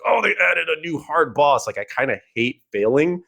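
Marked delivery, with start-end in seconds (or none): 0.1-1.7 high, sarcastic fake excitement; mock excitement. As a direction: gush over it like a bored gamer. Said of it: "I don't get excited".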